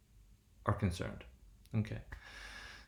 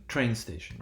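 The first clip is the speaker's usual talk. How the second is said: primary stress on "train", lighter "station"; "train" leads, "station" takes secondary stress; compound stress. Shown as a demonstration. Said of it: "The first element receiving primary stress".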